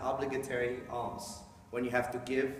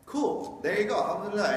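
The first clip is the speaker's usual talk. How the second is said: coworker cheerfully; 7 semitones higher, 4 dB louder than usual. Retold or imitated. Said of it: "it's like".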